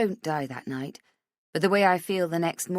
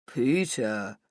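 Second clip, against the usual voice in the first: lightly lowered mocking imitation; mocking deeper voice; 4 semitones lower than usual. A narrator's reading. Rach mocking Hugo's name to Matt, a lightly deeper mock voice. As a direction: drop the voice to poke fun at him. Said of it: "in a deeper voice like I'm making fun of him".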